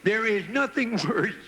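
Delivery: lightly voiced elephant with a scrunched-up nose; wrinkled-nose elephant. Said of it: "wrinkle up my nose to talk like this".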